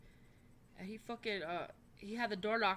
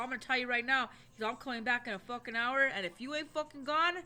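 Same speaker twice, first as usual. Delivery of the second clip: louder, higher menacing threat; threatening yell; 4 semitones higher, 5 dB louder than usual. Retold or imitated. Brother threatening the man in the apartment, angry threat. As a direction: threaten him like you mean to come back armed.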